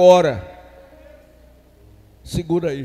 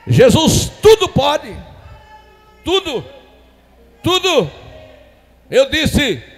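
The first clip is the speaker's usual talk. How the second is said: high, shouted pulpit proclamation; fiery, emphatic sermon delivery; full-force preaching; 7 semitones higher, 9 dB louder than usual. Acted. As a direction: hammer it out loud to the congregation.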